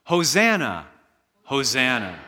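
crowd's shout. Retold or imitated. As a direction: echo the crowd waving palms. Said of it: "shouting that word".

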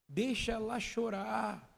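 slow, soft gentle plea; suave. Real, not acted. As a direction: let it flow gently. Gentle plea, song hint. (pedido suave e lento)

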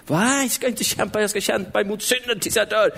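strained mock protest in a put-on voice; stubborn struggler, acted. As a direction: protest as if determined to fight on. Acts the believer who keeps struggling. (spelad, envis protest med tillgjord röst)

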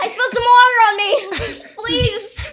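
high, loud, laughing plea. Acted. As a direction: beg for help while laughing. Playing needy actors.

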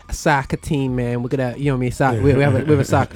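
mock American accent. Shown as a demonstration. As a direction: put on a quick American accent. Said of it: "my American accent was bang on there".

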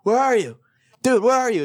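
impatient retold voicemail; mounting impatience. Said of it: "I kept getting more and more angry".

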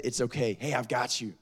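soft retold comforting; reassuring mother. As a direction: gently voice a mom soothing her child. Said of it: "And she said".

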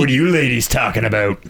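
lightly voiced sleazy coworker; a hint of a sleazy weirdo. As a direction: imitate a creepy male coworker. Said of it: "who's a sleazy weirdo".

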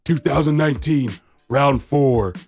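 slow, drawn-out show title call; title announcement. Acted. Host opening the wrestling podcast episode, drawn-out announcer call.

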